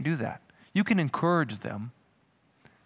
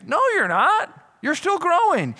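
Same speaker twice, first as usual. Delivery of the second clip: much higher and louder rebuke; raised preaching voice; emphatic correction; 12 semitones higher, 3 dB louder than usual. Real, not acted. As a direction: call them out firmly. Preacher rebukes self-satisfied faith.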